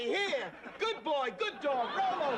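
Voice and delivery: high mock commands to a dog; high teasing dog commands; dog-owner commands. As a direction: order him about like a pet.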